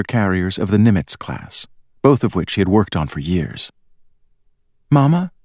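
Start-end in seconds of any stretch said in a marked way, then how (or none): 4.9-5.3 put-on pleading girl. A narrator's reading. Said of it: "Charlene pleaded".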